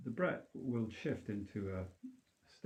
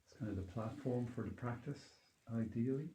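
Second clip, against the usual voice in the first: calm grounding exercise. Acted. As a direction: gently lead them back to their being. Leads a grounding meditation.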